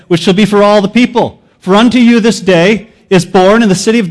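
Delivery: booming herald's announcement; proclaiming angel. Acted. Preacher voices angel for the crowd.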